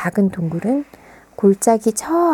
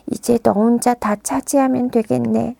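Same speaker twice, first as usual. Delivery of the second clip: sulky; 4 semitones higher than usual. Acted. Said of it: "뾰로통하게 대답했습니다".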